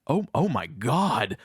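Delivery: slow, drawn-out stunned realisation; mock astonished gasp of words; shocked recognition. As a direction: act out dawning recognition of someone important. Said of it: "absolutely shocked".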